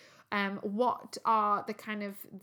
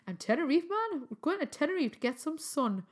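put-on Geordie accent; 5 semitones higher than usual. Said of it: "in a Geordie accent".

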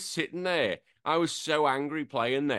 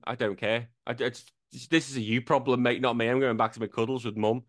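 a hint of a lower, bored dog voice; lightly voiced indifferent dog; voicing the dog; 5 semitones lower than usual. The dog ignoring its frustrated owner, lightly voiced bored dog. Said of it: "the dog's looking at me as if going".

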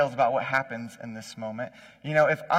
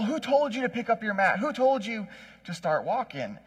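higher-pitched indignant interrogation; mock indignation; 6 semitones higher than usual. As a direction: act out affronted leaders demanding an answer. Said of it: "these guys just get mad at him".

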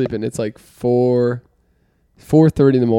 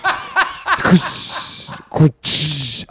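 imitated ripping sound. Imitates the shirt ripping under claws.

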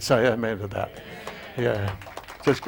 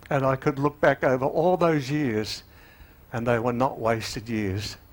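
emotional. Real, not acted. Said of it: "That's why I feel so emotional about this".

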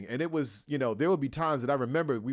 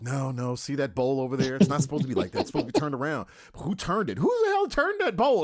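mounting director rant; 5 dB louder, faster than usual. Retold or imitated. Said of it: "I'm like".

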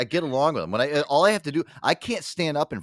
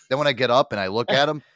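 ordinary talk, nothing marked

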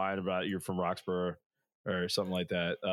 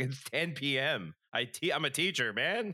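exasperated retort; 5 semitones higher than usual. Retold or imitated. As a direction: whine it out like a tired teacher refusing, slightly laughing. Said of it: "I was like".

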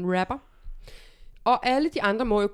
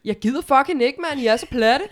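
put-on Jutlandic accent; 4 semitones higher, 5 dB louder than usual. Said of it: "taler du altid jysk".

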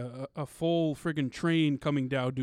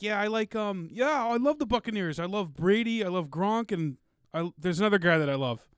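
lightly imitated Boston sports fan, higher pitched; a hint of spoofed Boston fandom; mock sports fan; 5 semitones higher than usual. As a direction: play a fan gushing over the team. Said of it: "he was spoofing, um, Boston sports fans".

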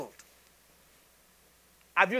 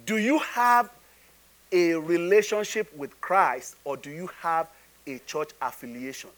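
measured question; 4 semitones lower than usual. Real, not acted. Preacher asking congregation about relationship with Christ, measured question. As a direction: pose it deliberately, letting the ending drop away. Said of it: "Okay, I'll say it again".

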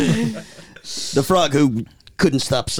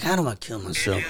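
mock despair; 3 semitones lower, 7 dB quieter than usual. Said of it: "He's like".

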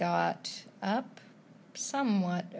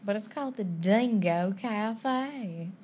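put-on Australian accent; slower than usual. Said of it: "Am I saying a good Australian accent?".

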